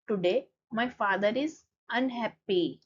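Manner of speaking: slow, careful reading of the English line; slow textbook reading. Shown as a demonstration. Teacher reads the book line slowly to students. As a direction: spell it out for the class, word by word.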